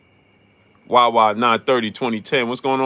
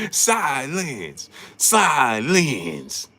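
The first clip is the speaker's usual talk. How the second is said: mock silence call; much slower than usual. Mocking Stephen A's catchphrase.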